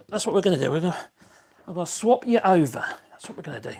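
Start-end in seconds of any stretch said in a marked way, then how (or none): 3.1-3.7 whisper. Real, not acted. Aside while swapping phone stands.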